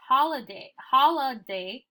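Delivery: holiday as "HOL-uh-day", weak middle vowel; natural reading of holiday. Shown as a demonstration. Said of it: "it's holiday".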